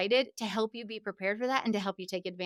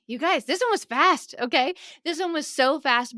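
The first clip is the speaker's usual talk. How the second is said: louder, brighter burst of excitement; excited; 4 semitones higher, 4 dB louder than usual. Real, not acted. Podcast host excitedly wrapping up for listeners, excited. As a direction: let the thrill spill out. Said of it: "I get so excited".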